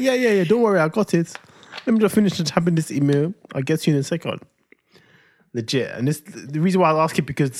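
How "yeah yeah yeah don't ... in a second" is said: higher, breezy brush-off while typing; distracted busy partner. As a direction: wave him off, half-listening. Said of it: "He's like".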